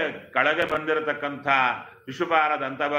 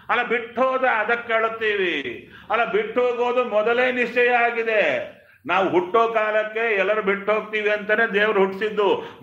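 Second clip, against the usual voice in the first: higher-pitched mock debate; acted arguing; 3 semitones higher than usual. Hiranyakashipu and mourners dispute weeping, acted protest. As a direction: argue back and forth in a raised pitch.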